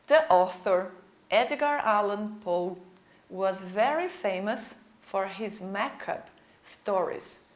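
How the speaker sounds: slow, measured lesson reading; unhurried teacher reading aloud in English. Acted. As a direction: read slowly for English learners, phrase by phrase. Reads English biography aloud to learners.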